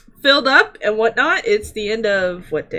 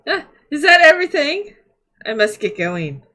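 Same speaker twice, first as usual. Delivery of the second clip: merchant voice. Acted.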